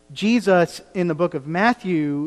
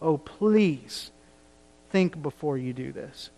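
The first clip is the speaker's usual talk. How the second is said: imploring. Retold or imitated. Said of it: "He's imploring them".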